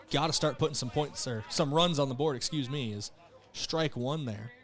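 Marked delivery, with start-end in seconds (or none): 3.5-4.5 calling through hiccups; hiccupping between words. Real, not acted. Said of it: "the hiccups are getting me".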